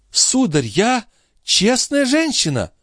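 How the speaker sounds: put-on high outraged cry of an old concierge; indignant old woman. A narrator's reading. The concierge outraged at Marat's accusation, high indignant cry. Grivette protests.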